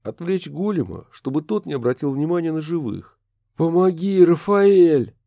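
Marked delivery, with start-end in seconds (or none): 3.6-5.1 high, loud cry; cry for help. A narrator's reading. Kurt begging the ghost, high loud cry.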